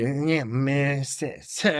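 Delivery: mumbled impression of a Black English accent, trailing into stutters; mock Black English accent. Showing friend a hard-to-follow Black English accent, mock mumble. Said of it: "when they have an accent".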